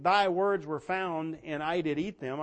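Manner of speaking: slow, measured reading of "Thy words were found"; slow scripture quote. Acted. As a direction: lay the verse down slowly. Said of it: "here's Jeremiah saying".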